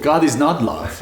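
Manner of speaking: a touch of anger, retelling a protest; mildly heated, insistent quoted objection; retold angry denial. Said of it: "That's what my anger came up".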